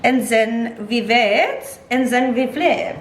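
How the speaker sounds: put-on playful German-accented cooking instructions; mock German accent. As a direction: put on a light German accent, drawing out the words. Mock accent while demonstrating cooking steps.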